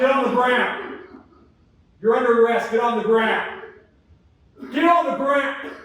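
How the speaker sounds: loud furious arrest orders; screaming commands. Acted. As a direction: scream it at him. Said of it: "an officer screaming and yelling".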